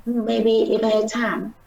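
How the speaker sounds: "Maybe" said lightly, "time" stressed clearly. Shown as a demonstration. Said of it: "we don't need to read very loudly".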